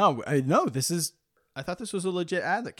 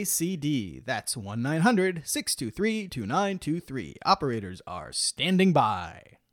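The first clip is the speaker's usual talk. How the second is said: upbeat ad read, salesman voice; infomercial. Acted. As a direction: pitch it like a cheesy TV ad. Sponsor ad read on podcast.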